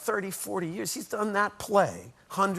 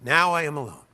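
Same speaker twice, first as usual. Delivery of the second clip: louder, firm declaration; clear, strong; 6 dB louder than usual. Retold or imitated. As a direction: announce it clearly to the whole house. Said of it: "Clear, strong".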